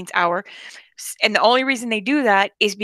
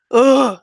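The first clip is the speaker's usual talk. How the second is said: loud, higher-pitched "ugh"; disgusted groan; 4 semitones higher, 7 dB louder than usual. Real, not acted. Griping about coworker's music, disgusted groan. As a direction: groan out your distaste, loudly.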